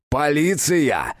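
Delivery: a slow, drawn-out angry bark of one word; fierce bark. A narrator's reading. Detective bursting into the clinic, fierce slow bark. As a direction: bellow it like a furious detective. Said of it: "свирепо гаркнул".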